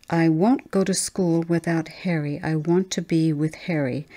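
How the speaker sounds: lightly voiced small girl, digging in her heels; a hint of a child refusing to budge; stubborn little girl. Little Chris refusing her mother, a touch of childish stubbornness.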